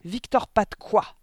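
slow, high, very loud demand; yelled question. A narrator's reading. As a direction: yell it, stretching each word. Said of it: "hurla mademoiselle Le Gourdin". (question hurlée, lente et aiguë)

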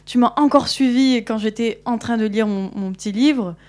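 put-on an irritated girl lecturing a pest, half-hearted anger; exasperated telling-off. Girl tells off the wolf following her, exasperated. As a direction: scold the wolf, fed up, with a sharp start that settles. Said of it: "elle commence à s'énerver encore".

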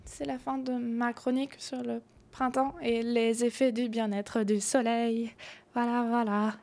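frog in throat, fading voice; voice giving out. Real, not acted. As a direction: voice going, struggling through. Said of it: "ma voix, elle part".

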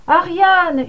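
Ariane cried out high and loud, despairing; desperate shout. A narrator's reading. Thésée calling Ariane from the drifting ship, a desperate shout. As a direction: hurl the name across the water. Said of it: "hurla-t-il".

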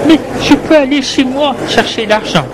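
high, pleading woman's voice. Acted.

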